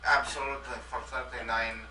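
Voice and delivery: lightly put-on Russian accent; a hint of a Russian leader. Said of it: "I am Russian Boris".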